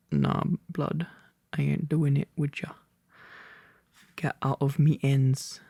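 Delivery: put-on light London roadman accent as Thorin; a hint of roadman swagger for Thorin; British roadman. Thorin brushing off Bard, in a light London roadman accent. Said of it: "I turned British then. Roadman, specifically".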